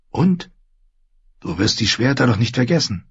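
put-on high, impatient girl's voice; high-pitched, nagging question; pressing girl. A narrator's reading. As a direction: press him in a high young voice.

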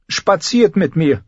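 high, slow royal command; commanding boy-king. A narrator's reading. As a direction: order her to walk with you. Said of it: "befahl Joffrey". (hoher, langsamer Befehlston)

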